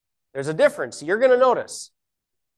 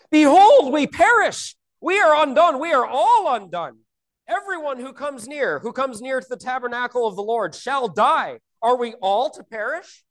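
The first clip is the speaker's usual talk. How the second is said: despairing lament; 4 semitones higher than usual. Retold or imitated. The people of Israel wailing to Moses, hammed-up despair. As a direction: cry out as if all is lost.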